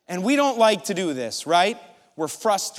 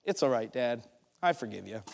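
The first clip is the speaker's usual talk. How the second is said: tender forgiveness; 7 semitones lower, 7 dB quieter than usual. Retold or imitated. Voices his son forgiving him.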